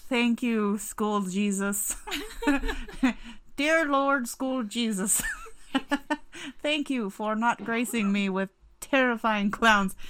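mock prayer. Sister thanking school Jesus for no clowns, mock-reverent prayer. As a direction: pray gratefully, half-laughing.

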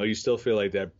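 ordinary delivery

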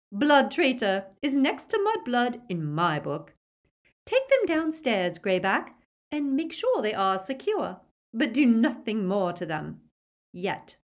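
high, loud, contemptuous orders; sneering command. A narrator's reading. Witch dispatches prisoners with werewolf, high sneering command. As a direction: order haughtily, dropping for the last word.

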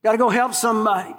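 hammed-up resentful griping; mock fury. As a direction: play a put-upon volunteer complaining. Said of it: "furious about it".

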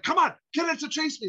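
a manic Walken plea; imitating Walken. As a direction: coax it like a giddy Walken. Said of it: "is like".

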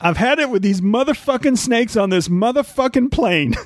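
high, tough movie-gangster voice; Samuel L. Jackson impression. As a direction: growl it like a badass gangster. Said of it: "I can't do his voice great".

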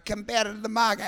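lightly imitated Russian-accented meerkat; slogan in a mock Russian accent. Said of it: "they've got Russian accents".

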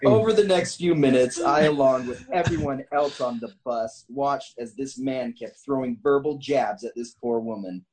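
measured, deliberate story reading; story narration. A narrator's reading. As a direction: read the tale out with emphatic phrasing. Reads a written story aloud.

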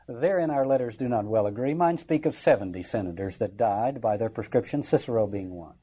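offhand report of the dead; cavalier. Acted. Brutus answering news of the slaughter, cavalier. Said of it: "very cavalierly".

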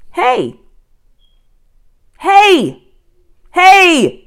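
loud, high repeated yells; shouting. A narrator's reading. Jack shouting after his sister, high yells. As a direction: yell to stop her. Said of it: "shouted Jack".

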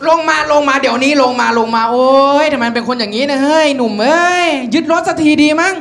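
insistent mock-scolding, rising in pitch; exasperated policeman. Policeman threatening to seize the bike, exasperated. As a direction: order him off in a fed-up rush.

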